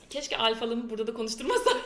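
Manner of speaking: rueful line through a laugh; giggling self-mockery; laughing regret. Real, not acted. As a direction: laugh at your own bad luck.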